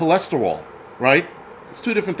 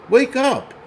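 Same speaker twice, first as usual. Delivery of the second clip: loud wake-up call; 7 semitones higher, 4 dB louder than usual. Acted. Scolding the tough talkers.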